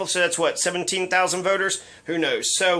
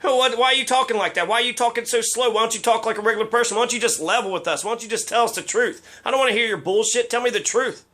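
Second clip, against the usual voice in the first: higher and fast, fed-up demands; exasperated challenge; 3 semitones higher, faster than usual. Real, not acted. Challenging Kevin Cover to talk straight, exasperated. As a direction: rattle off the questions, losing patience.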